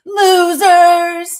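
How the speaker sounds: high, loud mocking bellow; all-caps shout. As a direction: yell it like three exclamation points. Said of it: "type it in all caps with three exclamation points".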